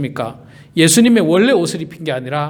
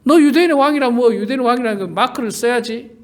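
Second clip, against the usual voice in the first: higher, sneering voice; mocking; 4 semitones higher than usual. Preacher voicing soldiers mocking the title, sneering higher. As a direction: taunt the king about his sign. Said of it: "조롱하는 거예요".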